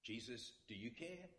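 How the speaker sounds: soft questioning rise on care. Shown as a demonstration. Preacher reading the line as a soft question. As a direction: ask it gently, not accusing. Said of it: "read this as a question".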